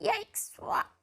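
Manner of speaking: startled yelp. A narrator's reading. Scared dinosaur reacts to roar.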